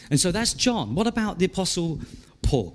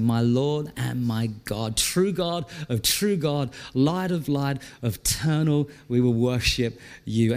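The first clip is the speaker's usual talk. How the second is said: prayerful; 6 semitones lower than usual. Acted. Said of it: "coming alongside Thomas and saying".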